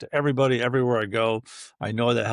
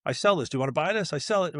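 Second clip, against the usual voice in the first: mock pushy salesman; 3 semitones higher than usual. Mocking a pushy salesman at a networking event, hurried. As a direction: rattle off the pitch like a pushy seller. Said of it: "'Cause if you're just like".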